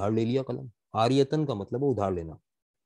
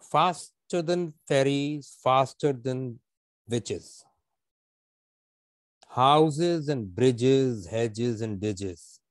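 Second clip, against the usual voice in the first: slow recital; much slower than usual. Shown as a demonstration. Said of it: "अल्फाज में तेज तेज पढ़ूंगा".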